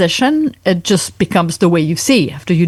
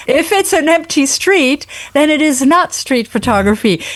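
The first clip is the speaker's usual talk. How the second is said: measured, higher-pitched clarification; careful restatement; 5 semitones higher than usual. Shown as a demonstration. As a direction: spell it out deliberately, pitched up. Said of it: "I said it too fast".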